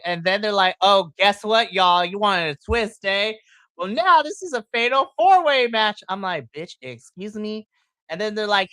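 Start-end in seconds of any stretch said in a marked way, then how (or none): 0.8-6.0 loud teasing announcer, rising higher at the reveal; mock announcer twist. 6.5-7.7 soft, slow disbelieving aside; incredulous aside. Retold or imitated. Her reaction to the twist.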